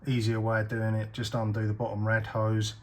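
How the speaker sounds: speaking while lying under the car. Real, not acted. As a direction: talk flat on your back under the car. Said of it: "I'm under the car".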